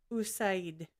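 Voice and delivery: "Usaid" with an "oo" start, like "oo-SIGHD"; attempted pronunciation. Shown as a demonstration. Second try at the name she butchers, attempted pronunciation of "Usaid". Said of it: "how to say it".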